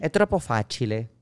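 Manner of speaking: showy Italian reply. Shown as a demonstration. Actor shows off his Italian when asked if it was hard. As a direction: answer in proud Italian. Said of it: "¿Y qué, fácil o difícil?".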